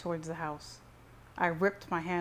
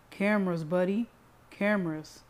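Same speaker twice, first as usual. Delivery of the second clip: understated hiss, voiced and falling; a touch of menace, each word set apart; 5 dB louder than usual. A narrator's reading. Brother taunts into Cyrus's ear, mildly hissing. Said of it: "Nathan hissed into my ear".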